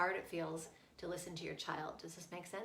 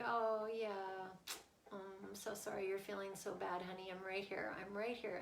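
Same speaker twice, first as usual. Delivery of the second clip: soothing; 4 dB quieter than usual. Retold or imitated. Mother soothing raging child, acted.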